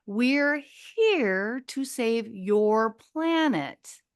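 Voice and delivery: alien pronouncement. Retold or imitated. Acting out the visiting aliens' announcement.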